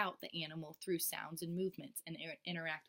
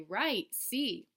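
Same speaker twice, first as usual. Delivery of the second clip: a touch of the bright teacher voice; teacher praising a child's answer, lightly bright; 3 semitones higher, 5 dB louder than usual. Shown as a demonstration. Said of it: "and I'll say".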